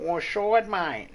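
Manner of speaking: high, loud mock fight challenge; Aussie challenge. Drunk challenging someone to fight, loud mock voice. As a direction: dare him outside like a drunk. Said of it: "The Australian way".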